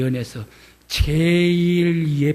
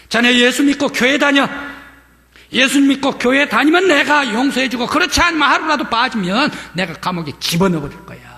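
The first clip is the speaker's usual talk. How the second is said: 높고 크게 다그치며; 겁주며 다짐받듯; 8 semitones higher, 6 dB louder than usual. Retold or imitated. 면장님이 엄포. (높고 크게 엄포 놓는 면장님)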